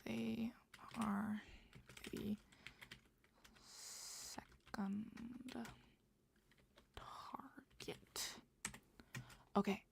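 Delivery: hushed. Real, not acted. Writing notes late at night, very soft. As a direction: murmur the words as you write them down.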